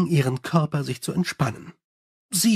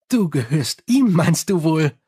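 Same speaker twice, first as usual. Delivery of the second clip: Sally. Acted. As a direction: rattle on cheerfully like a gossiping vampire. Sally the vampire speaks.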